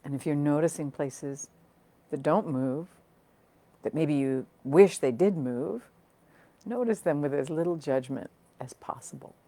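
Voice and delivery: calm, unhurried meditation guiding, with long pauses; guided meditation. Acted. Teacher settling online listeners into noticing their breath, guided meditation. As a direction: guide listeners gently inward, phrase by phrase.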